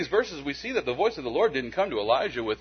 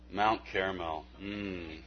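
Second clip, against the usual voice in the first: softer, lower, lingering on Mount Carmel; dreamy savoring; 6 semitones lower, 10 dB quieter, much slower than usual. Shown as a demonstration. Pastor savoring the name of a nice place, dreamy and soft. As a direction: say Mount Carmel like a lovely getaway. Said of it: "sound just like a nice place to go".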